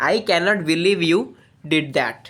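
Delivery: cannot, believe and did stressed, I and you light; slow teacher demo with beats on cannot, believe, did; sentence rhythm. Shown as a demonstration. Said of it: "ଏଇ ତିନିଟା ଉପରେ ବେଶୀ focus କରାହେଉଛି".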